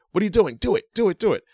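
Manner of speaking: high, loud mock yell; imitated yelling. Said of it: "Reigns is yelling at Zayn".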